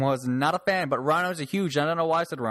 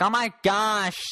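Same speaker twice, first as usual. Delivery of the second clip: high, wailing online complainer; mock outraged people; 8 semitones higher, slower than usual. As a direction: imitate scandalized commenters, slowing into a drawn-out last line. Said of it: "people's like".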